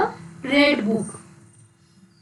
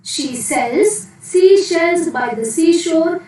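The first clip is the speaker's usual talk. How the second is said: slow, raised, each word spelled out; slow careful tongue twister; 4 semitones higher than usual. Shown as a demonstration. Teacher models a tongue twister for children, slow and careful. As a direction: lay out every sh sound slowly for the class. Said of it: "Once again".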